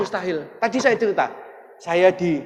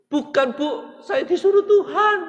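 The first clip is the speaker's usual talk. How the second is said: high, bright laugh through the words; laughing reply; 11 semitones higher, 5 dB louder, slower than usual. Retold or imitated. Preacher answering the pastor's wife, high and laughing. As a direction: laugh it off humbly.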